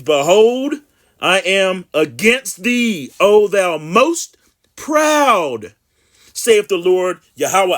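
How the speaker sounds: slow, emphatic scripture reading. Acted. Preacher reading Jeremiah to his viewers, slow and emphatic. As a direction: proclaim the verse with long drawn-out words.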